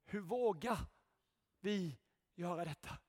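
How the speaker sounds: hushed rebuke. Acted. Preacher quietly rebuking Christian leaders, hushed. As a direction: ask it under your breath in dismay.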